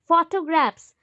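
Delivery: "फोटोग्राफ्स" with फो, टो and ग्राफ्स each weighted; stress on three syllables. Shown as a demonstration. Teacher showing three-part stress, weighting each part of "फोटोग्राफ्स". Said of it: "उस पे ज़्यादा focus करें".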